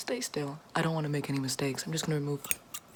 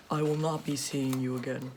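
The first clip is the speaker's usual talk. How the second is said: usual speaking voice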